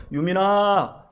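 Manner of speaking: slow drawn-out call; calling child's name. Retold or imitated. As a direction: call the name across the yard, slowly. Father calling child at daycare. (천천히 길게 아이 이름을 부름)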